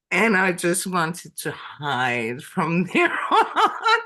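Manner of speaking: slow, laughing through the words; laughing embarrassed. Real, not acted. Recalling the sperm whale mix-up, laughing slowly. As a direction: chuckle it out, embarrassed.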